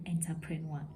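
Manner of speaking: entrepreneur opening with "en-ter", as spelled; entrepreneur misread with "enter" at the front; common mispronunciation. Shown as a demonstration. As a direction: say entrepreneur as "enter-pre-nwa". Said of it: "it is just not the way that it is said".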